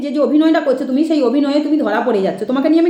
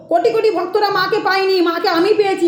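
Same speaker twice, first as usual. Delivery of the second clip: higher-pitched, lightly mocking boast; imitated boastful medium; 4 semitones higher than usual. Critic quoting the medium's claim to devotees, mock boastful imitation. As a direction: mimic the medium's claim, mildly put on. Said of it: "আবার বলে দিচ্ছ".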